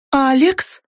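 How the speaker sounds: high, anxious call of a name; worried call. A narrator's reading. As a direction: call out in alarm. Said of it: "Встревоженный голос Лауры".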